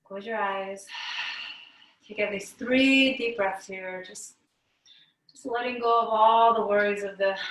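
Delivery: unhurried yoga teacher leading breaths, with pauses; guided meditation. Real, not acted. Yoga teacher settling the class to breathe out stress, guided meditation. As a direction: guide the class into letting go, phrase by phrase.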